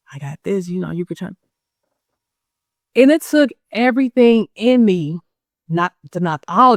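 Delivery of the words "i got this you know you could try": hushed, softer sales whisper to the customer; sneaky quiet pitch. Retold or imitated. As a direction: mimic a vendor luring a customer on the sly. Rival vendor's sneaky pitch retold.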